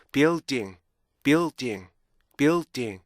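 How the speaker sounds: BUILDING joined up, keeping the held L before a stopped D; "building" as bee-ul, tiny stop, ding; blended building. Shown as a demonstration. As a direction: join the beats of "building" into one word with its inner rhythm. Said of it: "이거를 합쳐주면요".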